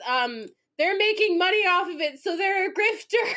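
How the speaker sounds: loud, high, incredulous exclamation; gleeful outrage. Real, not acted. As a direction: crow over a scandalous discovery.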